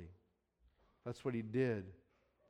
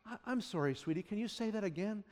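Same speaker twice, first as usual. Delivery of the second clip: patient dad; 8 dB quieter than usual. Retold or imitated. Father answering child in car.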